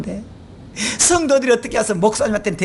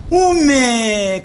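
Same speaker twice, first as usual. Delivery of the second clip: very slow, loud Jeolla oh my; drawn-out dismay; 5 dB louder, much slower than usual. Retold or imitated. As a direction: stretch out the dismay. Dialect exclamation of dismay. (길게 늘인 탄식 오메)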